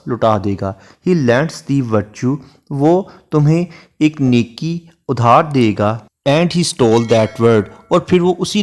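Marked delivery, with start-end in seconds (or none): 1.1-2.4 lingering over each word of the sonnet; unhurried classroom recitation of Shakespeare; slow poem recitation. Shown as a demonstration. Recites sonnet line in English. 6.3-7.6 lingering over each word of the sonnet; unhurried classroom recitation of Shakespeare; slow poem recitation. Shown as a demonstration. Recites sonnet line in English.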